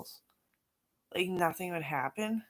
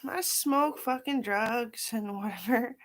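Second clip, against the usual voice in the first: mocking group members; 5 semitones higher, 5 dB louder, slower than usual. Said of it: "everyone's like".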